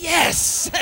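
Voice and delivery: high, loud mock cheer; triumphant. Father retelling his joy at escaping a speeding ticket. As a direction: celebrate like you just got away with it. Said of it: "I was like".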